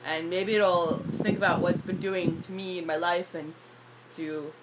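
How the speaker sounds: raspy, tired voice; hoarse voice. Real, not acted. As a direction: voice scratchy after screaming. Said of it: "I don't like talking like this".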